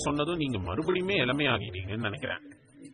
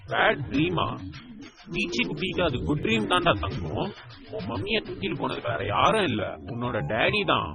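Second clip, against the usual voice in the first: put-on higher, sing-song reassurance to a child; playful coaxing; 3 semitones higher than usual. Uncle reassuring niece about her dream, higher coaxing voice. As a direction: cheer up a little one, bright and coaxing.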